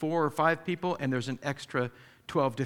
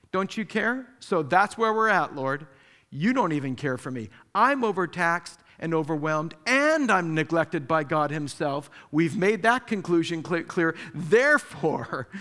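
mock self-righteous grievance, louder at the end; indignant complaint; 3 dB louder than usual. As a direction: lay out her case as if it's ironclad. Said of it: "as if her point is ironclad".

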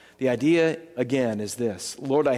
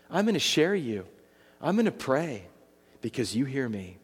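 quiet sincere prayer; 3 dB quieter than usual. Pretend. Personal prayer to God.

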